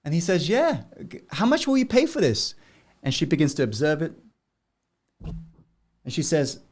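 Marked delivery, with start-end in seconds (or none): 0.5-2.6 put-on high little boy voice. Boy asks jeweler, higher voice.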